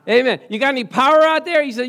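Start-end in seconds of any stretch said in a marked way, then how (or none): 0.1-0.4 rousing call-and-response shout; loud call of the word. Shown as a demonstration. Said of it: "Let's say it". 0.5-1.6 loud, high rallying shout; preacher's rousing shout at the audience; calling out to the crowd. Real, not acted.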